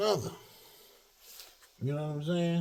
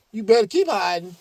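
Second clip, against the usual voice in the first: a much louder, menacing warning with stress on keep; loud threat; 5 semitones higher, 12 dB louder than usual. Real, not acted. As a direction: bellow it as a threat. Threatening hidden enemies.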